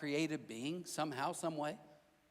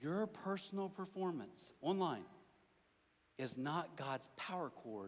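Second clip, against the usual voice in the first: slow, deliberate delivery, every word laid out carefully. Speaker tells listeners they have to hear this, said real slow. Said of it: "I'm gonna say it real slow".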